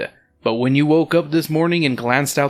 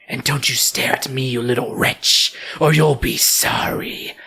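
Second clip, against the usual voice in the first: menacing ghost. Acted. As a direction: warn them as a ghost. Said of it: "the ghost says".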